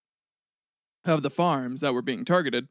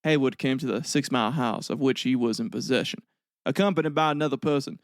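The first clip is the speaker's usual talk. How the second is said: southern accent reading. Shown as a demonstration. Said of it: "I'm gonna read it in a southern accent".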